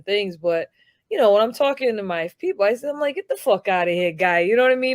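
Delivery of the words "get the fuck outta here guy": brash Rhode Island tough guy; Rhode Island accent. Retold or imitated. Talking to his people in a Rhode Island accent. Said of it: "My Rhode Island comes out".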